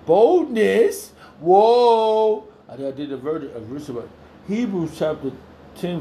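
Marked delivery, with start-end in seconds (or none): 0.1-2.5 loud high exclamation; excited shout. Real, not acted. Preacher bursting out over the verse, loud and excited.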